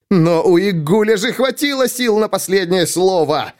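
put-on high, urging old man; coaxing old voice. A narrator's reading. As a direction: press him gently to speak. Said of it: "увещевал Таро Тайрен".

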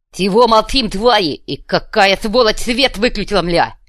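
loud, angry boss yelling at underlings; furious boss. A narrator's reading. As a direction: bellow at the silent council. Fuhrer berates subordinates.

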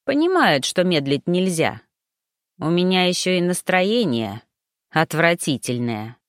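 plain reading voice

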